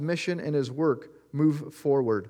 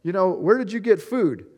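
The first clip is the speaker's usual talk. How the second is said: puzzled disciples; 4 semitones higher, 3 dB louder than usual. Retold or imitated. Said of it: "they're like".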